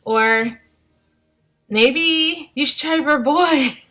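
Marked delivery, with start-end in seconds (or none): 1.7-3.8 lightly voiced, higher sugary busybody; nosy nice people. Strangers asking mom of three girls about a boy, lightly mimicked sweet prying. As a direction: chirp it up like a well-meaning stranger. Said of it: "and they're like".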